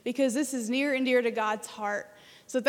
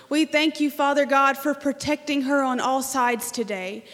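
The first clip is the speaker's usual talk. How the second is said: public prayer. Acted. Speaker praying for Israel before the congregation, fervent prayer voice. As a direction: lead the church in earnest prayer.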